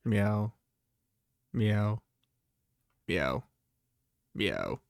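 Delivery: cat meows, dropping deep; meowing. Pretend. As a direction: meow like a cat.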